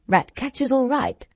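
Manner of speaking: puzzled master's questioning repeat; incredulous echo. Acted. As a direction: echo it back in disbelief. Master echoes the groom in disbelief.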